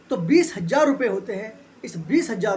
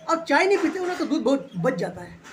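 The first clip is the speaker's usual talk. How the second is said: laughing while quoting; 4 semitones higher than usual. Retold or imitated. Wife's remark retold with laughter.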